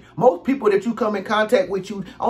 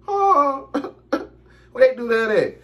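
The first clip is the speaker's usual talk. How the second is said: incredulous; 5 semitones higher than usual. Real, not acted. Outburst again.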